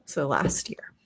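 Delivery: real hushed whisper. Real, not acted. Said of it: "I have to whisper 'cause".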